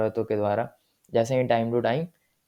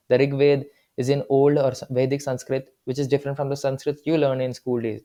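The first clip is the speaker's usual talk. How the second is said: reading the textbook line out slowly, word by word; slow dictation reading; much slower than usual. Acted. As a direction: dictate it slowly for students to note down. Reads textbook lines aloud. (धीमे-धीमे किताब से पढ़कर लिखवाना)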